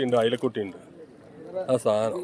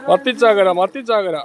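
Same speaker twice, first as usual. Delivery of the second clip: excited calling out; 4 semitones higher, 4 dB louder than usual. Real, not acted. Calling out sardine haul.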